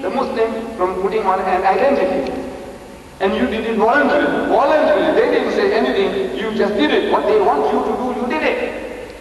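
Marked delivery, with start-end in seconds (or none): 3.2-9.1 raised, accusing preacher voice; rebuke. Real, not acted. Preacher scolding his listeners, accusing and raised.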